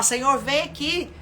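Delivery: preacher acting out a loud desperate prayer; fervent loud prayer. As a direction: cry out to God with full force. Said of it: "é pra eu ir pra Deus e falar".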